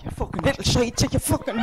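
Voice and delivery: high, mock-shrieking mother scolding; mother yelling at son. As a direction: ham up a mother berating her son. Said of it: "I get enough of that at home".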